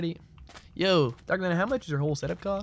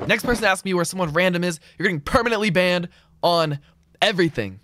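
louder, pitch a bit higher, laying down the law; annoyed threat; 4 semitones higher, 4 dB louder than usual. Real, not acted. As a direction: warn chat you're done with these questions. Streamer threatens chat with bans.

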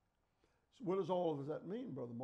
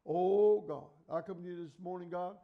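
mocking rote prayer; 9 dB louder than usual. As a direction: ham up an empty repetitive prayer. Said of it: "Some people pray the same prayer every time".

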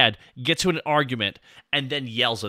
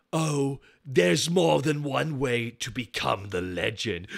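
slow, lightly put-on villain voice; a hint of smug anime villain; anime villain line; slower than usual. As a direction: streamer voicing a villain's cocky line. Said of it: "he has several lines Lanny Patora gives".

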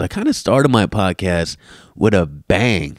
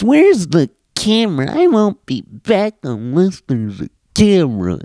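whiny commenter mock; 9 semitones higher, 4 dB louder than usual. Podcaster mocking viewers who want a camera whiny. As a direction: mimic the entitled viewer.

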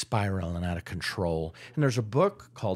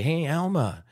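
hearty phone greeting, building louder; friendly client call; 4 semitones higher, 4 dB louder than usual. Shown as a demonstration. Agent calling a long-unseen client, hearty and friendly. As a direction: greet an old client like a buddy.

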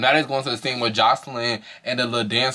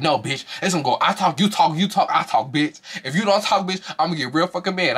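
imitating Yummy; 5 semitones higher than usual. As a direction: push the rules, rising shrill-free but high. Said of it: "She was like".

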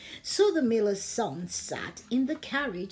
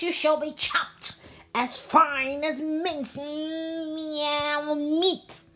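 fierce cat voice; 5 semitones higher than usual. Acted. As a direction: push the threat hard, drag the ending. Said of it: "in such a fierce a fierce voice".

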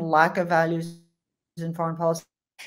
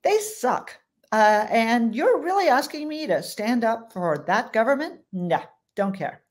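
put-on higher, scornful, don't-care voice with no accent; mock dismissive official; 4 semitones higher than usual. Quoting a German official to the host, higher and scornful. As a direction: toss off Ukraine like it's beneath him. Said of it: "I won't do the accent, even though I'm tempted".

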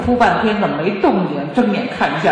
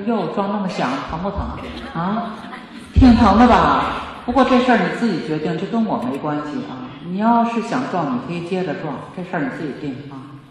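casual unconcern. Shown as a demonstration. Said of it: "你说".

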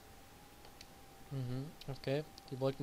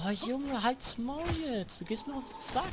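annoyed; 8 semitones higher than usual. Real, not acted. Annoyed by repeating line.

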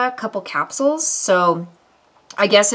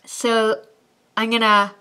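slight lisp around teeth; speaking with fake fangs; 3 semitones higher than usual. Real, not acted. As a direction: fingers pressing at mouth. Seen 1: Fangs visible on upper teeth; fingers press them into place.

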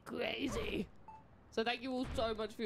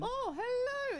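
excited hello; 14 semitones higher, much slower than usual. Real, not acted. Greeting a new follower.

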